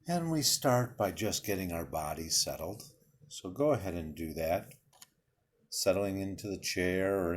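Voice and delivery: calm, unhurried guiding voice with long pauses; guided meditation. Real, not acted. Leader settling listeners into breathing and imagery, guided meditation voice. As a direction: lead them gently through each breath, leaving space between phrases.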